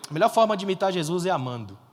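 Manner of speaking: ordinary talk, nothing marked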